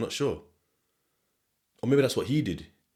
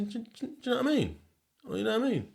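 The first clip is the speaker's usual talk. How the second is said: "do you know what I mean" clipped into Sheffield slur, much higher; fast slurred Sheffield "know what I mean"; Sheffield accent; 12 semitones higher, 4 dB quieter, faster than usual. Shown as a demonstration. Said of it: "I say".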